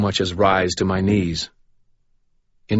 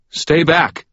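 alarmed warning; 9 semitones higher, 5 dB louder than usual. Acted. Priest warns Michael back.

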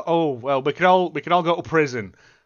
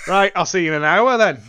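casual farewell, laughing; 5 dB louder than usual. Retold or imitated. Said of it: "you're going".

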